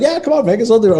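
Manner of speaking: high, loud teasing voice of a stunt guy; hammed-up stunt guy daring the boss; mock egging-on stunt guy. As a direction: goad him on in a high loud tease. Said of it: "Some guy's like".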